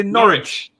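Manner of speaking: Norwich said slowly as Norr-idge, no W; teacher saying Norwich slowly; silent W. Shown as a demonstration. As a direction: model Norwich with no W. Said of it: "don't pronounce the W".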